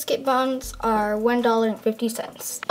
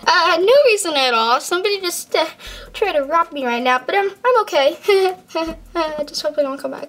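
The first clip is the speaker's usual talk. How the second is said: nervous and shaken; 5 semitones higher than usual. Acted. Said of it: "seem so stressed out and scared".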